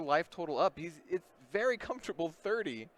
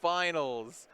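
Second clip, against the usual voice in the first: excited; 3 semitones higher, 4 dB louder than usual. Real, not acted. Calling the winner of semifinal.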